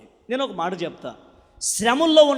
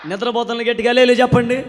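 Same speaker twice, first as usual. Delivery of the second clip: louder prompt; 3 semitones higher, 9 dB louder, faster than usual. Shown as a demonstration.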